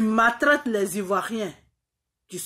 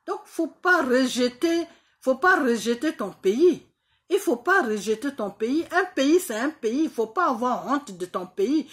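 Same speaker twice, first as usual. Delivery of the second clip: louder and higher, hammering each pas; emphatic scolding; 5 semitones higher, 4 dB louder than usual. Real, not acted. Telling Ouattara not to reject his country, loud scolding. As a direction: lecture him hard, pressing every repeat.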